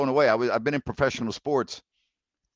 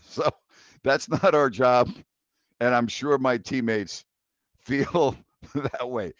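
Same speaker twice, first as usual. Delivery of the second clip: laughing while reading; 3 dB louder than usual. Real, not acted. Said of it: "you know why I'm laughing?".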